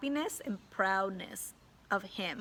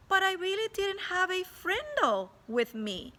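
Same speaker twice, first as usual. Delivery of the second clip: put-on high, bold innocent kid voice; brave boy; 10 semitones higher than usual. A narrator's reading. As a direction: say it bravely, straight-faced. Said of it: "Nick was brave and he says".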